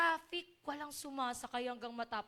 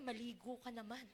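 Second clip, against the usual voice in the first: softer, laughing playful quote; mock voice of Lord; 5 semitones lower, 12 dB quieter than usual. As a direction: tease it through a laugh. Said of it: "Si Lord yun". (pabirong boses ng Panginoon, may tawa)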